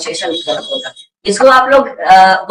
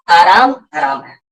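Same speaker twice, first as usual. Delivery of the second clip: proverb shout; 2 semitones lower than usual. Shown as a demonstration. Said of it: "proverb punchline".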